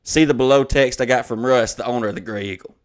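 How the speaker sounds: declaimed formal complaint, even and unbroken; email read-aloud. Acted. Venue complaining to the comedian's agent, formally read aloud. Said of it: "I'm gonna read the email".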